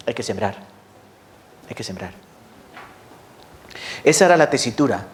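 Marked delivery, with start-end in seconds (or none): 0.1-0.5 lower, softer "Hay que sembrar"; quiet resolve. Retold or imitated. 1.7-2.1 much lower and softer "Hay que sembrar"; near whisper. Retold or imitated.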